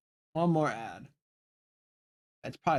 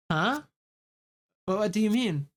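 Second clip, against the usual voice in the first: higher, puzzled question; confused character voice; 6 semitones higher than usual. Acted. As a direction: ask it higher, baffled. Reading a confused character reply.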